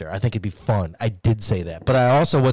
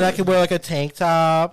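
ordinary delivery

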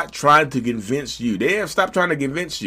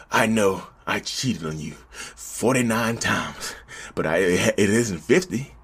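lower, softer sheepish excuse; low soft sheepish cheater; mock self-excuse; 6 semitones lower, 6 dB quieter than usual. Cheater justifying himself.

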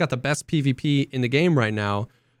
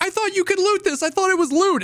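much higher, innocent excuse; clueless newbie voice. Retold or imitated. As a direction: play dumb like a brand new player. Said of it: "And I was like".

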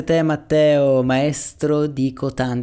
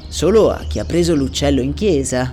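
clear priest voice. Acted. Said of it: "a voce chiara e estesa".

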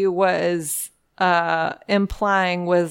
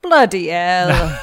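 slow, drawn-out fake British accent; lightly hammed-up British exclamation; mock British accent; slower than usual. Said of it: "stopped doing that accent".

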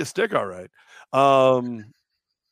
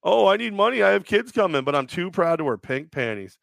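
mocking whine; 3 semitones higher than usual. Mocking the co-host's excuse.

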